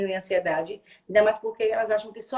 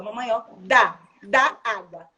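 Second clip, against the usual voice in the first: put-on louder, child-like "dá água"; modeling child's request; 7 dB louder, much slower than usual. Shown as a demonstration. Mother voicing her child's request for water, loud and clear. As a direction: say it as the child should ask. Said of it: "Depois você vai aqui, ó".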